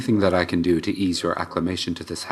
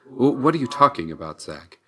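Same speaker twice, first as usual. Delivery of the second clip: stammered, higher-pitched incredulous question; startled disbelief; 5 semitones higher than usual. Acted. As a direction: blurt it out, thrown by the news. Reacting to startling news about mother.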